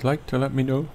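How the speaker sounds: interrupted by a hiccup; talking through hiccups. Real, not acted. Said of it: "excuse me, I've got the hiccups now".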